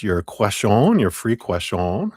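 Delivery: playfully bad French accent on question; mock French accent. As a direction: question said with a hammed-up French ending, "kwe-shon". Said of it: "That's my French. Horrible accent".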